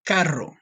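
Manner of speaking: "Carro" with a rolled R; Spanish carro, R trilled. Shown as a demonstration. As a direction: roll the R in "Carro". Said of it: "you have to roll your R's".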